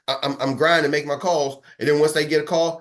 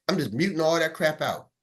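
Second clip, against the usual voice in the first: ordinary delivery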